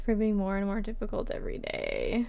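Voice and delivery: measured, expressive reading; letter read-aloud. Acted. Writer answering Anne months later, lightly performed letter reading.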